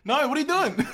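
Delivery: loud high celebratory shout; excited cheer. Acted. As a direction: cheer like a game show host. Host celebrates correct answer.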